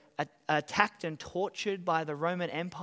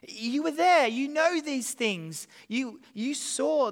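mild preacher's challenge; 6 semitones higher, 5 dB louder, slower than usual. Acted. Preacher confronting King Agrippa.

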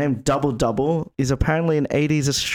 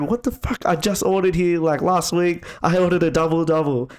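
higher-pitched mock indignation; indignant customer; 5 semitones higher than usual. Customer disputes order, retold.

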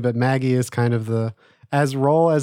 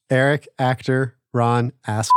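deadpan reading. Shown as a demonstration. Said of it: "would you read this".

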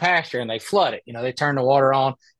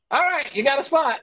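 retold official; 9 semitones higher than usual. Quoting the organizers.

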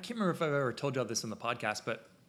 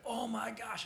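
high gushing gasp at the dress; mock gush; 10 semitones higher, slower than usual. Photographer gushing over a bride's dress, high and excited. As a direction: gush like a thrilled guest.

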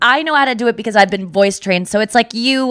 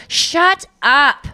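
impatient mom; 4 semitones higher, much slower than usual. Retold or imitated. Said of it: "my mom would go like".

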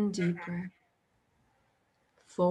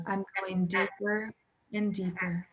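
soothing affirmation; 4 dB quieter than usual. Shown as a demonstration. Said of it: "you're going to say".

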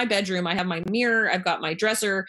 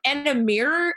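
mock surprised; 7 semitones higher than usual. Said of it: "And she's like".

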